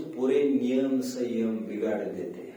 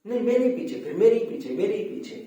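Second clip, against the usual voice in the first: higher-pitched repeated objection; insistent mock protest; 6 semitones higher, 3 dB louder than usual. Elder repeating the accusation to the comforter, mock insistent. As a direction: imitate someone who won't let it go.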